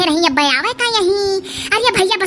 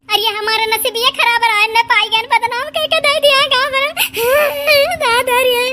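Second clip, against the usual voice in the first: breaking into tears; 2 semitones higher than usual. Acted. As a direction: start complaining, then burst out sobbing. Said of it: "उदास ना हो रो, वो ना". (रोवत-बिलखत)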